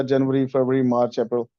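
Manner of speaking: जनवरी फरवरी in plain Indian style; desi pronunciation. Shown as a demonstration. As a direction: mimic the desi way of saying months. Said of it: "देसी तरीके में जैसे हम pronounce".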